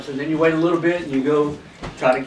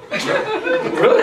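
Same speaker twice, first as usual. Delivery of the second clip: surprised. Retold or imitated. Surprised at the deer carry.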